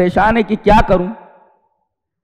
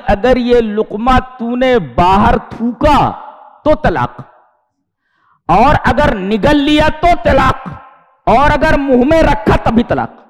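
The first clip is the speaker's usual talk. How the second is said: angry husband; 4 semitones higher than usual. Retold or imitated. Husband threatening his wife over the morsel, mock anger. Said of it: "شوہر غصے میں تھا".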